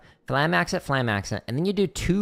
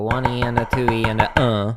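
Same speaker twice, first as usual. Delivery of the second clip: loud rhythmic count, landing on "uh"; counting aloud; 7 dB louder than usual. Shown as a demonstration. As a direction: chant "one E and a" evenly like sticking. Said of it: "or you can just go".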